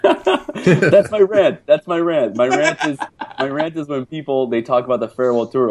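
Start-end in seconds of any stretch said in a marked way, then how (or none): 0.0-4.5 laughing rant. Real, not acted. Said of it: "a good rant from you".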